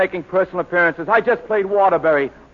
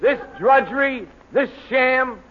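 drawn-out exclaimed punchline; slow comic shout; 2 semitones higher, slower than usual. Acted. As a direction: stretch it out and shout it. Exclaims about radio money.

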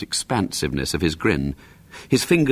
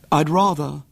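noble; 7 semitones higher than usual. A narrator's reading. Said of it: "assuming an expression of noble self-sacrifice".

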